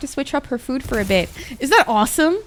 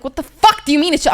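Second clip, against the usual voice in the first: higher-pitched indignant questioning; retold outraged protest; 4 semitones higher, 3 dB louder than usual. Patient challenging the dentist's "it's chill", retold outraged protest. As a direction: push back in mock outrage.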